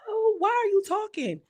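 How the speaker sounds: high mock of a catty castmate; mocking retort. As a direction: toss it off in a high snotty voice. Voicing Anna's retort.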